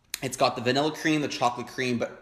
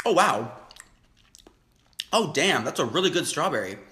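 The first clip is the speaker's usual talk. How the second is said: surprised delight; 2 semitones higher than usual. Real, not acted. Tasting strawberry.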